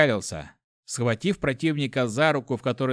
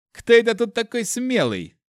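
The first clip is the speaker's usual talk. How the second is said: high, loud threatening question; raised voice, spoiling for a fight; blustering challenge; 10 semitones higher, 6 dB louder than usual. A narrator's reading. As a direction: demand it as the guard bursting in. Guard bursts in, challenging prisoners.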